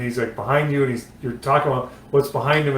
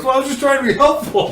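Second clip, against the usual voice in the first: high, lightly mocking innocent tone; innocent excuse; 12 semitones higher, 5 dB louder than usual. Retelling the spotter's sheepish reply to the driver, mock innocent. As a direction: play it falsely innocent, pitched up. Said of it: "He goes".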